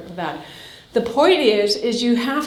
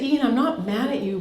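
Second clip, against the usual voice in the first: firm, direct. Retold or imitated. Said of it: "So I just say".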